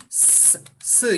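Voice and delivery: "s" as a voiceless hiss; hissed s sound. Shown as a demonstration. Teacher shows the plural sound after hard consonants, voiceless s. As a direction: sound out "s" alone, not the letter name. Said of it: "sesi gibi okuyacağız".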